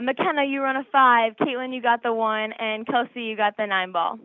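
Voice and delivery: calling plays across the court; volleyball voice. Shown as a demonstration. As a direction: shout the rotation to teammates. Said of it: "say something in your volleyball voice to me".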